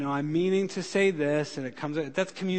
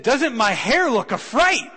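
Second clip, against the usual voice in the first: high, loud, slow fretful lady voice; worried lady; 8 semitones higher, 9 dB louder, slower than usual. Retold or imitated. Lady on the flight asking about her hair, loud and high. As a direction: ham up the anxious passenger. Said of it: "She said".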